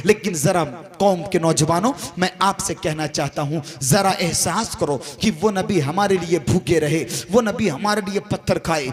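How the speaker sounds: solemn low entreaty, each phrase repeated in cadence; earnest appeal. Real, not acted. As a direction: drop the pitch and appeal to their conscience. Earnest appeal to the community's youth.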